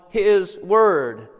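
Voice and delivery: "His word" set apart, slow and deliberate; emphasis on His word. Shown as a demonstration. Preacher marking the repeated key phrase, emphatic "His word". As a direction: give "His" and "word" each their own weight. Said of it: "we have the emphasis on".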